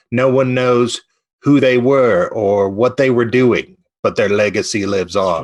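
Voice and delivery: slow, solemn rock-star musing; Nigel quote. Retold or imitated. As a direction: deliver it like a deadpan profound line. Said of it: "where Nigel says".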